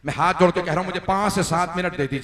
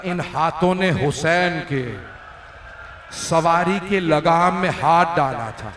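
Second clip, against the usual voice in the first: rising remorseful plea; 3 dB louder, slower than usual. Acted. Hur confesses guilt.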